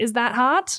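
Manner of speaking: said sarcastically. Retelling a question asked while watching a movie: retelling a sarcastic question. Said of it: "I asked it, like, sarcastically".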